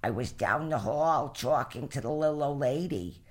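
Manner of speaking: slowed, lightly voiced little old lady; imitating her grandmother, slow and unhurried; grandma's voice. Grandchild quoting her ninety-eight-year-old Bubby, lightly imitated voice. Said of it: "I'll do her voice".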